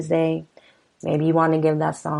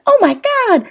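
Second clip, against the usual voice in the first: much higher, pleading wife voice, slow; voiced frightened wife; 7 dB louder than usual. Host reading lyrics gives the wife a high, frightened plea. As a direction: pitch way up as the scared wife.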